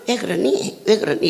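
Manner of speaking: Seoul speech. Shown as a demonstration. Preacher demoing dialects to congregation, light Seoul accent. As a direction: ask it gently, standard Seoul way. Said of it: "서울서는".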